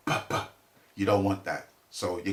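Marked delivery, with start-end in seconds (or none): 0.1-0.4 plosive p sounds. Shown as a demonstration. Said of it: "when you mention the p and the b".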